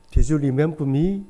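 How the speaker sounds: slowly spelled-out English question; each word drawn out to an old classmate; slow deliberate question. Retold or imitated. Asking a former classmate, slow and deliberate.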